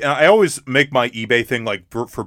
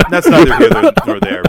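high mock voice; 10 semitones higher, 11 dB louder than usual. Comic high delivery of idiom.

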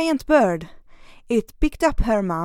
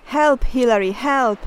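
mock cry for help; 2 semitones higher, 5 dB louder than usual. Mom calling Hilary for help, raised mock cry. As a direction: call out as if being carried off. Mom cries near waterfall.

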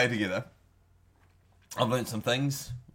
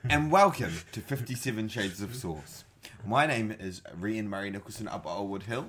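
storyteller voice. Acted. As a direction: tell it like an ancient legend. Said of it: "Why are you speaking like a fucking storyteller?".

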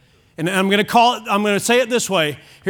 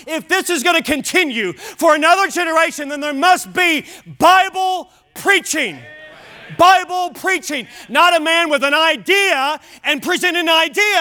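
raised, emphatic pulpit delivery; preaching; 4 semitones higher than usual. Real, not acted. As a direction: hammer the key words to the congregation. Preaches at high pitch.

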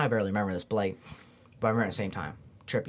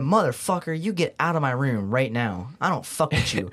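angry yell; 2 semitones higher, 3 dB louder than usual. Retold or imitated. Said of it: "I got pissed off".

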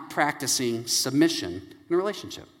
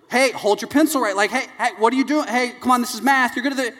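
higher-pitched, insistent coaxing; urging mother; 7 semitones higher than usual. Retold or imitated. Wife coaches hungry daughter through math, higher urgent prodding. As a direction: imitate a mother chivvying a drifting child.

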